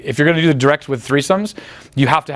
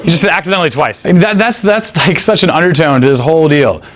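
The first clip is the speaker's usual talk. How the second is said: amused outburst; 7 dB louder than usual. Real, not acted. Laughing loudly after joke.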